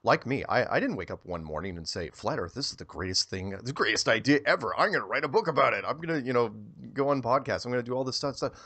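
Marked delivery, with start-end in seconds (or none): 2.1-8.5 higher and faster, hamming up a gushing convert; mock eager enthusiasm. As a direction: play the overexcited new believer, tongue in cheek. Mocking his imagined eager self.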